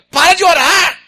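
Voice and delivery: high loud, slow demanding question; voice of God. Acted. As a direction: boom it as God asking why. God commanding.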